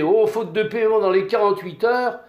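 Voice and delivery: loud, fast, menacing landowner; threatening. A narrator's reading. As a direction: bark the threat at the tenant, pushing fast. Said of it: "Le père Prosper l'a menacé".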